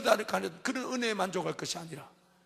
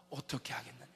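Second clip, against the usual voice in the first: low, soft, hushed asking; a hushed divine question; 7 semitones lower, 11 dB quieter than usual. Acted. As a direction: ask it quietly, almost to yourself. God's question quoted, hushed.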